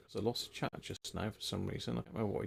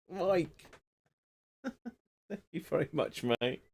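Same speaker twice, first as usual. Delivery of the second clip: laughing through a higher, slow thank-you; 7 semitones higher, much slower than usual. Real, not acted. Thanking Mike on stream for the beer, laughing. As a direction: thank him while still chuckling.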